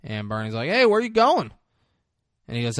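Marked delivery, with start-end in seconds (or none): 0.7-1.5 loud, high challenge; imitating a sharp confronting question; acted calling out. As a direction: call after someone, pitched way up. Acts Bernie calling out to Cranston.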